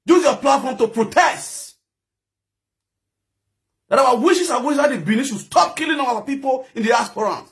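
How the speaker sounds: high, forceful angry appeal; impassioned protest. Real, not acted. Urging viewers to protest loudly.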